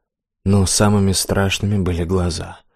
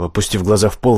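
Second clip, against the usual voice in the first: ordinary delivery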